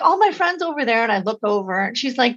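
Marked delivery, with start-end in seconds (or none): 0.0-1.0 imitating a distressed girl in a higher voice; high, mildly acted tearful protest; retold tearful sobbing. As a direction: plead as the upset girl, lightly imitated. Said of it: "started streaming tears and sobbing".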